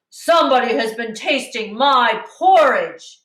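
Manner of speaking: hint of a big papa bear grumbling; great big bear voice. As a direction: gently play the biggest bear. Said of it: "in his great big voice".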